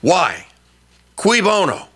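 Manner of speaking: usual speaking voice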